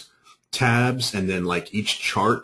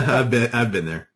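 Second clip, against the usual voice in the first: laughing; 4 semitones higher than usual. Real, not acted. Laughing in sympathy.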